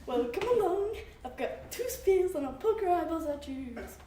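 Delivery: big goat daring the troll to fight; defiant challenge. Acted. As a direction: dare the troll to come.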